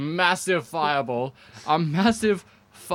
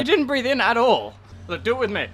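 helium voice; 6 semitones higher than usual. Real, not acted. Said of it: "hyped up on helium".

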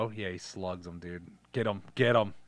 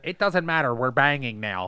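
lightly voiced blunt dad; deadpan dad, barely changed; impression of the dad; 3 dB louder than usual. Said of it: "that was actually a good impression of him".

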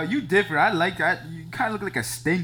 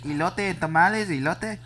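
lightly imitated vendor calling out wares, pitched up; mock food hawker's call; street vendor's call; 5 semitones higher than usual.

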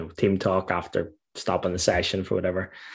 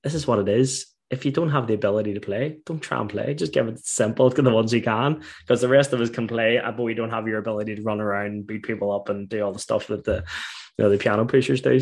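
mock manager laying down the rules, raised voice; lightly done Geordie manager explaining the game to his players; lightly voiced Geordie manager; 3 semitones higher than usual. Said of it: "McManamy was just like".

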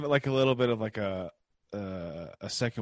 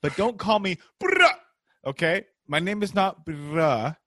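stern father; 2 semitones higher than usual. Acted. Tom Hanks voiced scolding his son over the accent, mildly stern. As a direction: lecture the son like a fed-up father.

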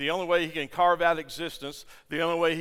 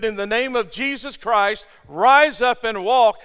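loud, slow, ringing command; commanding proclamation; 5 semitones higher, 9 dB louder than usual. Acted. Peter commands the lame man to rise, loudly and slowly. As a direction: call him to his feet with authority.

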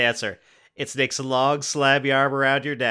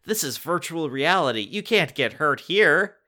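scoffing; 6 semitones higher than usual. A narrator's reading. Jordan dismissing Katie.

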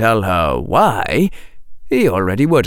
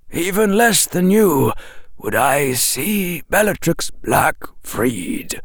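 put-on slow, gentle old wizard; calm wise old wizard; 8 semitones higher, slower than usual. A narrator's reading. Dumbledore voiced in story.

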